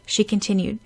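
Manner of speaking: tearful schoolgirl trying to be brave; young girl holding back tears. Acted. Sakura's voice, near tears.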